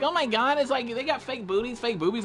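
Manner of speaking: high-pitched mock dismay; put-on high complaining voice; mocking complainers. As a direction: mimic a scandalised fusspot. Mimicking people who complain.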